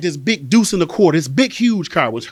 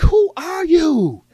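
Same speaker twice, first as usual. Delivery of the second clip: incredulous confrontation; 11 semitones higher, 5 dB louder than usual. Acted. Grown child to suddenly sweet mother, incredulous confrontation. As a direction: demand it in a high, raised voice.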